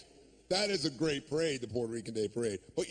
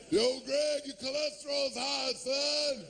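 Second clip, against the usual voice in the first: yell across tracks; 6 semitones higher, slower than usual. Retold or imitated. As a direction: shout the news across the platform. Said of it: "hire a Puerto Rican kid to scream across the tracks".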